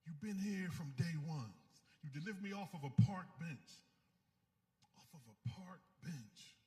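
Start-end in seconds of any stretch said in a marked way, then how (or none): 0.0-2.4 softening into a whispered "God"; earnest prayer. Real, not acted. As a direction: pray it, fading to a whisper.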